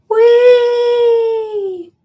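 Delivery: high, loud gleeful whee like on a ride; roller coaster whoop. Pretend. Mimicking a roller coaster rider for a viewer, gleeful high whoop. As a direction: throw your arms up and squeal it.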